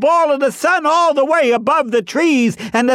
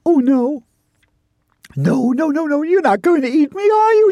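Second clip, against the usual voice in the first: anxious, quick pleading, rising at the end; frightened chipmunk. Acted. Chipmunk asks if Bear will eat him, nervous. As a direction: plead nervously as a tiny creature. Pinned chipmunk fears being eaten.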